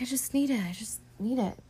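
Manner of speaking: mock pleading, starting high and sinking; insistent pleading. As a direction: plead it softly, a touch whiny, imitating. Retold wife pleading for money.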